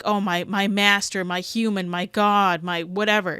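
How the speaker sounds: slow, hammed-up worshipful dog voice; mock adoring dog. Reaction host mocks a trainer's ideal dog, slow and adoring. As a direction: gush over the master as a mock devoted dog. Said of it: "so lovingly, like".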